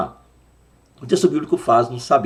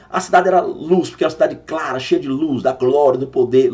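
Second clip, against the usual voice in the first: mock preacher; 3 semitones higher, 4 dB louder than usual. Teacher mocking a careless preacher's sermon, lightly preachy. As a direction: mimic a preacher getting carried away. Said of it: "talvez a pessoa pregue assim".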